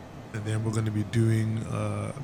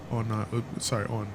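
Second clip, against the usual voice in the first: stuttering and fumbling words; real stutter, tripping over words; 8 dB quieter than usual. Real, not acted. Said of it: "why am I stuttering? I know I'm stuttering".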